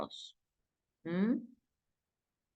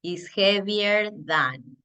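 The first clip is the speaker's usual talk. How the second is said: slow model phrase; much slower than usual. Shown as a demonstration. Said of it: "Entonces voy a decir".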